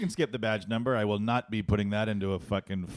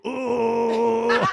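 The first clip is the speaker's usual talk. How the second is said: high loud laughing mimic; mocking impression; 13 semitones higher, 9 dB louder than usual. A worker mocking the drive-thru customer to coworkers, high laughing mimic. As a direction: parody the customer while laughing.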